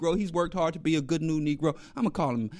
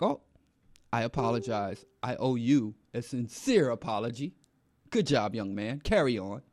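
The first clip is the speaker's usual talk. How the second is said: softer, lower mock-meek apology; humbly and quietly pretend to back down; 7 semitones lower, 6 dB quieter than usual. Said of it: "And I'm like".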